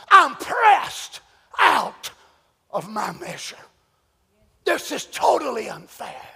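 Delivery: a worn-out apostle begging God for relief; anguished Paul. Acted. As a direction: voice of a man at the end of himself. Paul voiced crying to the Lord.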